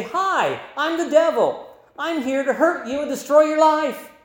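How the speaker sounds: a hint of a cheery devil; mock devil greeting. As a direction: play the devil cheerfully announcing himself. Devil introducing himself, mock.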